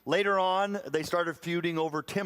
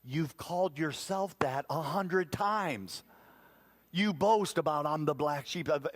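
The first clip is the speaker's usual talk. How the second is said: incredulous inner voice. Retold or imitated. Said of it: "in my mind, I was like".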